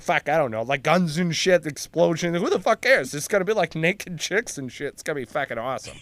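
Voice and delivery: hammed-up Boston construction worker; Boston accent. Worker describes an action movie, in an excited Boston accent. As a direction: sell the movie as a blue-collar Bostonian. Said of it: "because the accent's out".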